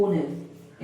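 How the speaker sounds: ऑनेस्ट said low with a silent h, starting on the O; pronunciation demo. Shown as a demonstration. Teacher answering his own question, low and clear. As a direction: model ऑनेस्ट with no h sound. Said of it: "क्या बोलते हैं?".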